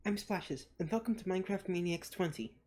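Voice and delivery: talking around gauze after a tooth pulled; gauze in mouth. Real, not acted. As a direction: speak with gauze packed in your cheek. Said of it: "so today I have some gauze in my mouth, so my voice probably sounds a little odd".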